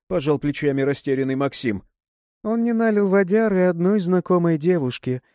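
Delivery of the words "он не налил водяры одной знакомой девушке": high, giggly teasing line; giggling. A narrator's reading. Sima giggling as she tattles on Maxim. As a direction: giggle it out, poking fun at him. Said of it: "хихикнула Сима".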